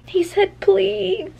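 high, loud, near-tearful read-out; overwhelmed wail. Real, not acted. Reader sharing his plea with viewers, overwhelmed. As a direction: wail it out, totally melting. Overcome reading a romantic line.

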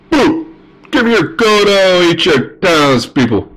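high, hammed-up dragon threat. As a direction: demand gold like a cartoon dragon, drawing out the threat. Voices the dragon.

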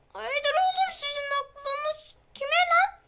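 high, slow mock threat; mock tough guy. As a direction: taunt the zombies in a put-on voice. Scolding the zombies in game.

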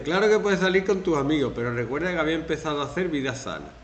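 guilt-tripping partner. Retold or imitated.

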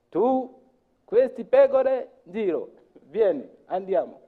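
imitating the farm boss giving orders; bossy farm boss. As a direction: order the new shepherd around with gestures. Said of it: "dicono, con le mani".

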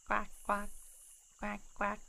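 squeaky duck quacks; squeaky rubber duck. Shown as a demonstration. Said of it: "practice Donald Duck voice".

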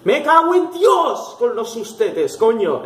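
high, drawn-out cry of shock; startled swearing. Real, not acted. Player cursing the game's jump scares, startled and high.

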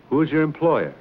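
demanding. Acted. Hero demanding his enemy's employer. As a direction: push him for the name.

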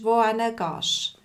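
slow, careful Swiss German "wohin gehst"; Swiss German demo. Shown as a demonstration. Teacher showing learners Swiss German, slow and clear. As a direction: spell out "wohin gehst" slowly, Swiss style. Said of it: "wohin ist".

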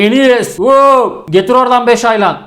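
mock workshop shout, stretched slowly; calling out. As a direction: holler at the new kid to fetch parts.

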